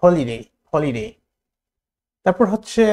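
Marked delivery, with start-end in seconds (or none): 0.0-1.1 slow demo of the word হলিডে with a light final glide; light glided ending. Shown as a demonstration. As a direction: ease off gently at the end of হলিডে. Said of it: "শেষের দিকে একটা এই টাইপের উচ্চারণ হবে, হালকা করে".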